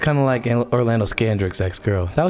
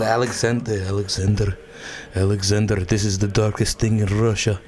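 low mock Russian accent; 4 semitones lower than usual. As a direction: repeat Alexander in a put-on Russian accent. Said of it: "working on that accent".

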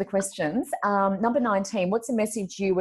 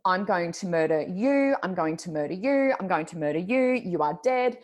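acted-out threat. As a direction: spell out each threat with controlled fury. Acts out threat to pranking colleagues.

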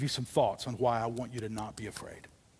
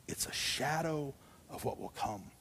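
hushed repeat; 7 dB quieter than usual. Real, not acted.

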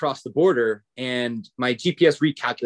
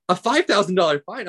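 higher, incredulous echo question; retold disbelief; 5 semitones higher than usual. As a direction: repeat it back in mild disbelief.

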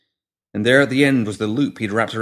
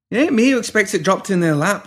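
retorting; 11 semitones higher, 4 dB louder than usual. A narrator's reading. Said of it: "by way of retort".

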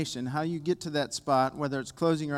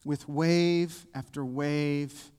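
slow psalm reading with long pauses. Real, not acted. Preacher reads Psalm eighty-eight for the congregation, slowly. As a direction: read each line slowly, letting it hang. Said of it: "I want to read them slow".

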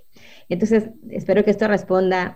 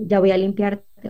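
gentle notice. Shown as a demonstration. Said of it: "yo le digo".

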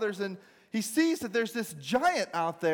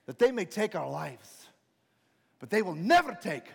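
William Wallace; 2 semitones lower than usual. Acted. Rider setting up his battle cry, restrained oratory. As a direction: pull back before the climax. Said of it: "William Wallace rides up on his horse".

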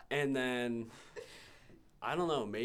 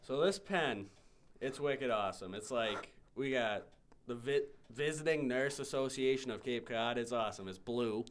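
put-on Boston accent. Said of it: "Sell me this pen in your Boston accent".

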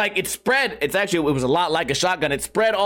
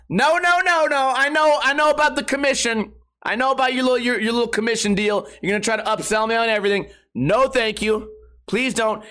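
emphatic refusal; 3 semitones higher than usual. Retold or imitated. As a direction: shut the sales pitch down hard. Refusing the upsell.

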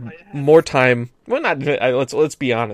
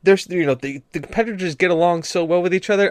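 higher-pitched retelling of an enthusiastic mother; sweet, higher mock-mom voice; gushing mom; 4 semitones higher than usual. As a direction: imitate a mom happily gushing. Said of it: "my mom was like".

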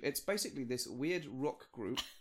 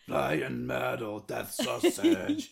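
death metal growl; 7 dB louder, much slower than usual. Pretend. Mock metal vocal.

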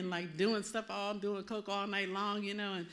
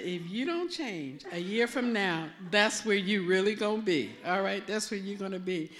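voicing the Lord; 6 dB louder than usual. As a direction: lightly voice God giving a firm warning. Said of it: "and the Lord said".

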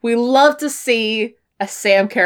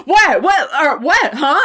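confused questions; 5 semitones higher than usual. Retold or imitated. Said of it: "Sarah's like".

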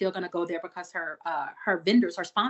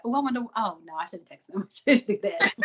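musing that turns to a laugh; laughing at herself; 4 dB louder than usual. Retold or imitated. Single friend stopping herself texting, laughing at herself. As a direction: catch yourself texting and laugh it off. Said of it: "I'll be like".

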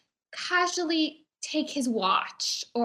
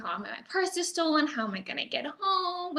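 higher, hammed-up helpless plea; mock distressed victim; 5 semitones higher, 4 dB quieter than usual. Pickpocket pleading with the gentleman, faking distress. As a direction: act lost and stranded. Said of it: "And she'd go".

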